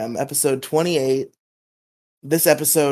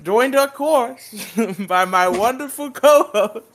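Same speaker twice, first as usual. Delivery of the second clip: hammed-up Southern host drawl, higher and slow; mock Southern accent; 7 semitones higher, slower than usual. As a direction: greet the listeners like a cartoon Southern cowboy host, pitched up and stretched out.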